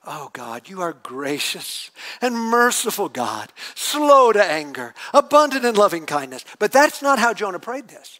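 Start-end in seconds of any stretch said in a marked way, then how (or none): 0.0-6.4 pious reading. Shown as a demonstration. Preacher reading the prayer the usual way, gently. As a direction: read it like a gentle devout prayer. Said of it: "here's how it usually reads".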